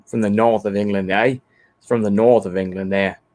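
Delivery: amateur north-of-England accent; attempted northern English accent. Shown as a demonstration. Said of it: "That's more of the north".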